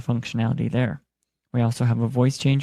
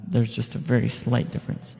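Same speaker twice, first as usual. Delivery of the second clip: reverb; 5 dB quieter than usual. Shown as a demonstration. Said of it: "Song is some interesting reverb".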